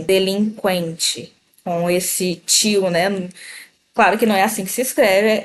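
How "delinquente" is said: Delinquente slowly, "in" and "en" as nasal vowels; slow, nasalized Delinquente. Shown as a demonstration. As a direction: draw out Delinquente with both nasal sounds. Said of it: "como se estivesse escrevendo ela assim".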